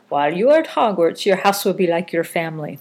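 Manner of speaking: lightly put-on Scottish lilt; Scottish accent. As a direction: quote it in an amateur Scottish accent. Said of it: "That's my Scottish accent".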